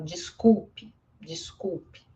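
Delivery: "desculpe" ending in a light ee sound; final E as I. Shown as a demonstration. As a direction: say "desculpe" as dees-KOOL-pee. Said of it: "às vezes é pronunciada como um I".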